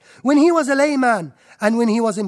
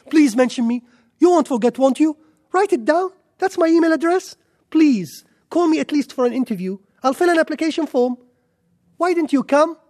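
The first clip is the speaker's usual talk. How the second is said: mock desperate begging; 5 semitones higher, 3 dB louder than usual. Undignified begging contrasted with dignity.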